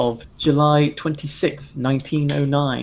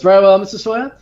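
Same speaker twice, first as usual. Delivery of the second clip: lightly voiced servant, dismissive and scoffing; a hint of a sniffy crew member brushing him off; 4 semitones higher than usual. Crew member scoffing at the raving passenger, mildly dismissive. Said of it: "the servant kind of just scoffs".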